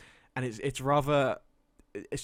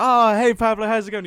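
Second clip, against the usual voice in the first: louder, higher, cheery hello to a friend; excited greeting; 9 semitones higher, 13 dB louder than usual. Retold or imitated. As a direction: greet a mate loudly, voice lifted.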